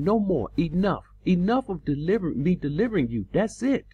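high, fed-up declaration; mock divine exasperation; exasperated God. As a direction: slam the door like a weary God. Voicing God's exasperation.

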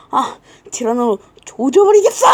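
loud shouted threat; angry vow. Acted. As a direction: yell out revenge. Learns Tirano ate the bread.

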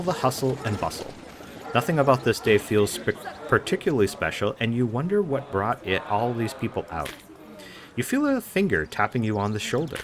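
even, lightly voiced scene narration; story narration. A narrator's reading. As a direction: set the scene for the player. Reads story scene aloud.

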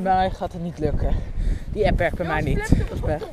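wind on mic. Real, not acted. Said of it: "Sorry voor de wind".

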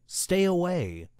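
high, loud and slow; a driver's slow shouted warning; screaming warning. Acted. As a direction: yell at the child to get back. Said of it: "The driver was screaming at me".

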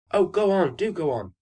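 put-on high, pleading children's call; eager cry. A narrator's reading. Children clapping for another story, eager cry. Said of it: "clapped their hands and cried".

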